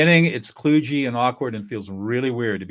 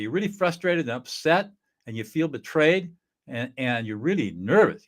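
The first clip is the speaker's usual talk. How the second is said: demo affect label; 2 semitones higher than usual. Shown as a demonstration. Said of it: "And then I'll say".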